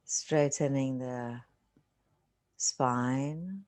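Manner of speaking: unhurried meditation guide, long silences between phrases; guided meditation. Real, not acted. Teacher settling listeners into a seated meditation, calm guiding voice. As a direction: ease them into stillness, phrase by phrase with long pauses.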